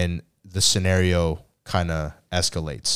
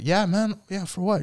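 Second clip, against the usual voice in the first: mock eager reply; 11 semitones higher, 3 dB quieter than usual. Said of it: "And I'll be like".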